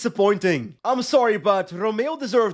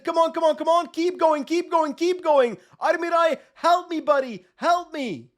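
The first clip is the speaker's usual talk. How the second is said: urgent cheering; 5 semitones higher than usual. Real, not acted. Urging his rider up the climb.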